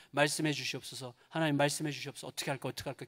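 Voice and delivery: a quiet plea fading to almost nothing; fading inner prayer. Retold or imitated. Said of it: "계속 기도하면서". (점점 잦아드는 간절한 속기도)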